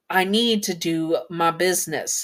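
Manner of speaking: lightly voiced cowboy accent; a hint of Southern cowboy. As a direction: slip into a slight Southern twang. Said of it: "Sorry if I slip into a sort of Southern or cowboy accent".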